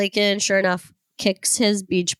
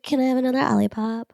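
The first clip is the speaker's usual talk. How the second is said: put-on cheeky child; 5 semitones higher, faster than usual. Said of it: "She'd be like".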